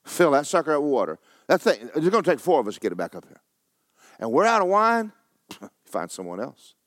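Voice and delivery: fast, scoffing refusal; sarcastic servant. Acted. Servant mocking Jesus's water request, scoffing refusal. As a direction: brush him off like he's crazy.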